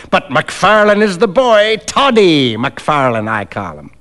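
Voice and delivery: teasing, over-familiar rogue; coarse stranger, familiar. Acted. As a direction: needle him with a nickname.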